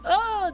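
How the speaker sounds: sudden very high gasp of a stabbed woman; mock gasp. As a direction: squeak out a shocked oh. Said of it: "and she's like".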